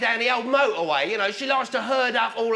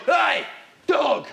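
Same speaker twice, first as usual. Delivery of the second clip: cocky customer call; 3 semitones higher than usual. Acted. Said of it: "I've gone".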